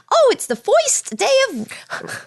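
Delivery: put-on high, slow New York accent, "foist" for first; hammed-up Bronx accent, "foist" with an oy sound. Imitating the cartoon rabbit's New York accent for a friend. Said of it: "he says it kind of like".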